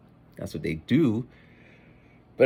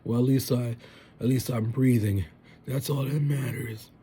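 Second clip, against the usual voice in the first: put-on slacker kid voice, pitched up; 5 semitones higher than usual. Slacker kid justifying himself to parents, mock excuse. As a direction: play a kid excusing doing the bare minimum. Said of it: "some slacker kids all like".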